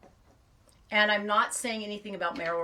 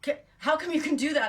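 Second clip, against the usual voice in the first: lightly mimicked kid, high and louder; hint of a baffled kid's question; imitating her kids; 8 semitones higher, 4 dB louder than usual. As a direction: quote astonished children in a raised pitch. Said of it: "I do it to my kids all the time. They're like".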